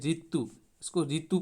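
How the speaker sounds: ऋतु said as "रीतु", a plain r plus i. Shown as a demonstration. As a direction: open ऋतु with a simple "ri". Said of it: "इसका इसी तरह से उच्चारण होता है".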